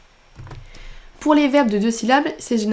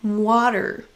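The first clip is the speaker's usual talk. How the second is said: Water with WA stressed; stress on first syllable. Shown as a demonstration. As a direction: hit WA in Water. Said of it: "Vous entendez que c'est sur la première".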